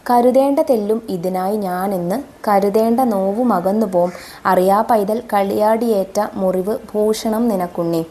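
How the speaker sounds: slow, measured recital of verse; poem recitation. Acted. Teacher reciting the mother's verse to her pupils, slow and measured.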